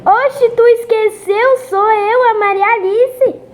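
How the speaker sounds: high, loud offended cousin; excited cousin voice. Acted. Voices cousin character in game.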